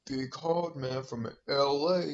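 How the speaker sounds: slow, lightly put-on tough-guy voice; mock hard man. Mocking how the fighter talks, slow hard-man impression. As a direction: imitate an L A hard man, drawn out. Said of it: "he talks like".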